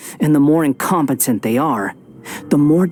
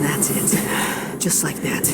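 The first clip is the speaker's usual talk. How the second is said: soft coaxing; 6 dB quieter, slower than usual. Acted. Villain coaxing hero into rage.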